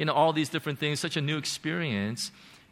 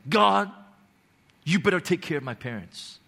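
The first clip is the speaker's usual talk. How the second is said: retold angry ultimatum; angry demand; 3 semitones higher than usual. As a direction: demand it of God with some heat. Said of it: "in a very nice way".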